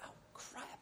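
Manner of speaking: breathless whispered oh crap; a caught-out whisper under the breath; whispered dismay. Retold or imitated. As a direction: curse softly to yourself, caught out. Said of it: "I'm going like".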